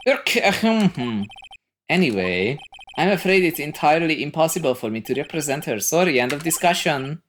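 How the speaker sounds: flustered throat-clearing, then brisk refusal; Marvin Grossberg. Acted. Caught-out lawyer ends the discussion, flustered. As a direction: cover a slip with pompous bluster.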